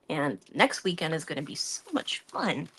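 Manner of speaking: mock enthusiasm with swooping pitch; sarcastic. Real, not acted. Vlogger on a weekend of dog sitting, sarcastic. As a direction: dryly pretend to look forward to it. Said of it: "I say sarcastically".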